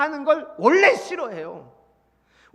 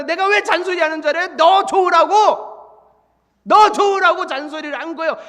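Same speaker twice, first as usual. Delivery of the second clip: higher, louder mock-sweet nagging; quoting a singer; 3 semitones higher, 7 dB louder than usual. Preacher quoting a singer to the church, mock-sweet. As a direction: play the caring nagger, raised up. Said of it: "가수가 그랬잖아".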